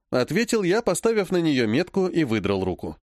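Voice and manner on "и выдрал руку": ordinary delivery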